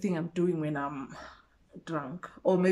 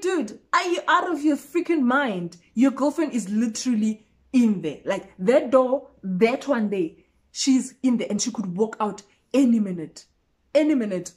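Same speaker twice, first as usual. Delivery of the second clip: put-on louder, urgent telling-off of a drunk friend; urgent warning; 3 semitones higher, 4 dB louder than usual. Warning a drunk friend his girlfriend is near, loud and urgent. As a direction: push the warning hard, stress any minute.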